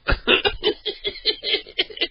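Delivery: high wheezing laugh; breathless high laughter. Real, not acted. Caller wheezes with laughter over the angry victim. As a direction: laugh until you can't breathe. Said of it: "I'm laughing so much I can't even breathe".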